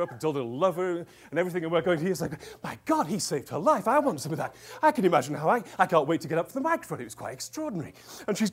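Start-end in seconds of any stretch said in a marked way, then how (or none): 2.6-7.0 excited onlookers. Retold or imitated. Audience acted as excitedly envious.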